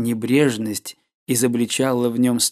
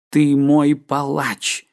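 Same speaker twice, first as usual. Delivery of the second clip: horrified cry; 3 semitones higher, 5 dB louder, much slower than usual. A narrator's reading. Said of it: "воскликнул молодой человек".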